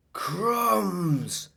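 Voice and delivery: high breathy amazement; amazed. Acted. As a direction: sound stunned. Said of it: "said Nick".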